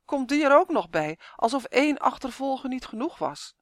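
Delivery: mildly theatrical complaint; wailing lament. A narrator's reading. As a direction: moan at one misfortune too many. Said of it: "kermde de elf".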